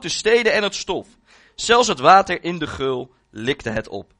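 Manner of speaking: measured, emphatic Bible reading; scripture reading. A narrator's reading. Preacher reads Elijah's story to the church, scripture reading. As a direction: read it out solemnly to the congregation.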